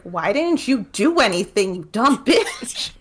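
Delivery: slow, high, sneering mock scold; hammed-up angry brother; mock harsh brother. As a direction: exaggerate the brother's contempt for his sister. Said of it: "He didn't say it like that".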